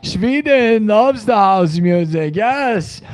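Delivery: high, hammed-up Swedish accent, slow; mock Swedish fan gushing about house music; PewDiePie Swedish accent. Streamer imitates PewDiePie to chat in a hammed-up Swedish accent. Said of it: "PewDiePie says in his Swedish accent".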